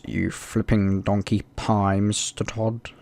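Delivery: slow, lightly voiced stern judge; a hint of a drawn-out villain sneer; Alan Rickman. Judge scolding Mister Todd, slow mock villain voice. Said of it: "That was my best Alan Rickman impression".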